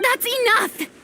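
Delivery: high, sudden intervention; firm interjection. Acted. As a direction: cut off the quarrel. Bystander cuts off the shouting match.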